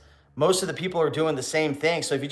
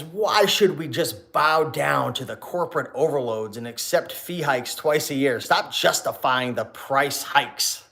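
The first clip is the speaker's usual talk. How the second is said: lightly put-on voice, slow, dragging each word; odd reading voice; slower than usual. Reading a viewer's comment aloud, slow and lightly put-on. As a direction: read the comment slowly in a half-mocking put-on voice. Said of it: "I don't know why I'm talking like that".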